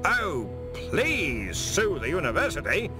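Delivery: hearty bellow. A narrator's reading. Ridcully taunting the man who threatens to sue, slow contained bellow. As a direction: bellow it slowly, stretching PLEASE. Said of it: "Ridcully bellowed".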